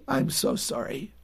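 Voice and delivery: soft, slow, gentle apology; tender sympathy. Acted. Parent consoling a child who feels stupid, tender. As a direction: console a hurting child softly and slowly.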